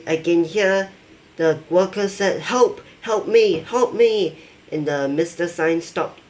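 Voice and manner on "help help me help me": higher-pitched pleading, lightly acted; mock cry for help. Worker calling for help as the boss attacks, mildly panicked. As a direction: act out a victim calling for help.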